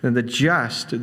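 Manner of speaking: slow, weighted JUST; stress on JUST. Shown as a demonstration. Preacher explaining the emphasis in Galatians, stress on JUST. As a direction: lean on the word "just" and hold it. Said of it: "the emphasis is on the just".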